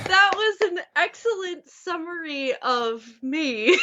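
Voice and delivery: said through a laugh. Real, not acted. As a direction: laugh while you say it. Laughs at flattering introduction.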